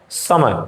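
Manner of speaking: समय with the सा stretched long; समय spoken with a long held सा; drawn-out sa. Shown as a demonstration. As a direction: lean on the सा and pull it out. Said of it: "इस सा को कितना खींच करके बोला गया है".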